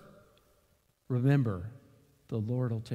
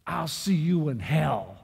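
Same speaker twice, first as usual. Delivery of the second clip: mild mock scream; 2 semitones higher, 5 dB louder, slower than usual. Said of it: "He screamed at me".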